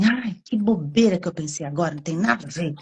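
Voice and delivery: dismissive scoff. Shown as a demonstration. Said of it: "não dá pra falar assim".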